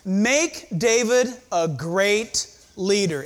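"make" given weight, slow; preacher underlining "make" for the congregation; stress on make. Shown as a demonstration. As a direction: lean into "make" and let the line slow. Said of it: "I want to stress the word make".

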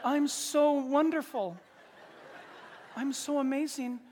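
slow, mock self-admiring voice; conceited. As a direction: stretch out the self-praise. Acted conceited big-headed church member.

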